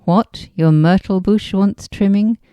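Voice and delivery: "trimming" lifted into a questioning rise; conversational question. Acted. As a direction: ask it conversationally, rising to "trimming". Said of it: "The conversational tone".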